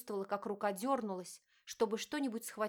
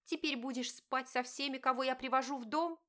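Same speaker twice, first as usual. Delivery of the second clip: higher, pained accusing wife; wife confronting her cheating husband, pained; hurt wife; 4 semitones higher than usual. Acted. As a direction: plead and accuse at once.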